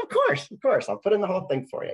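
high, loud, ready yes; eager agreement. Retold or imitated. Agreeing to a favor asked over the phone, eagerly.

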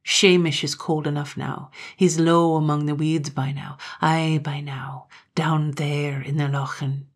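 a lightly voiced brooding Highland man, dropping to a hush; brooding Gloom. Gloom telling Katrine his brother is drowned, grim and hushed.

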